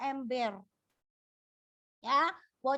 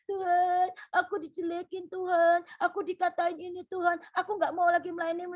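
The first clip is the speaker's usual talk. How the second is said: mock whining to God; 3 dB louder than usual. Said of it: "apa-apa mewek, apa-apa nangis".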